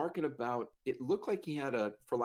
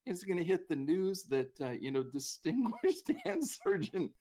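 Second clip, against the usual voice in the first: higher-pitched comic scolding; retold exasperated rant; mock cursing; 5 semitones higher than usual. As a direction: scold a friend, half laughing. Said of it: "they're cursing him".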